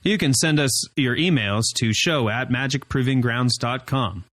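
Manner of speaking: robotic hard sell pitch; car salesman voice. Shown as a demonstration. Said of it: "You sound like you're trying to sound like a car salesman".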